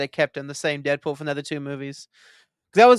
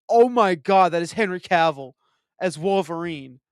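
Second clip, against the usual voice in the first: excited recognition. Retold or imitated. Retells recognizing the actor.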